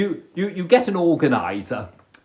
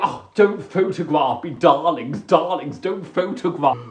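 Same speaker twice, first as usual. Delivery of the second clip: mock diva. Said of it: "I can be like".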